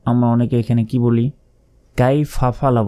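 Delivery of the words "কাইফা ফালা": "কাইফা ফালা" run together into one word; wrong way. Shown as a demonstration. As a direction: merge "ফালা" onto "কাইফা".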